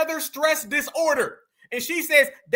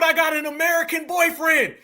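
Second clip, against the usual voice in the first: mock shout; 3 semitones higher than usual. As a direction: yell it back in mockery. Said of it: "She just pulled".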